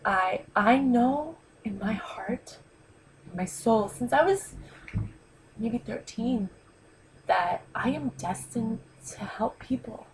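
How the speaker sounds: slow, near-whispered, holding back tears; real tearful hush, slow; fighting tears. Real, not acted. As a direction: barely get the words out without crying. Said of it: "I'm trying not to cry".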